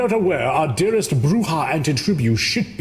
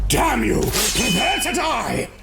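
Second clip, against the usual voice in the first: shout; 6 semitones higher, slower than usual. Acted. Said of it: "I wanted to scream that as loud as I could".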